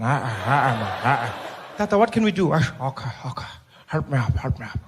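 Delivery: low, grumbling elder voice; groaning old Mandela. Retold or imitated. Mandela asking to be helped up, low and groaning. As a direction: creak up like a tired old man.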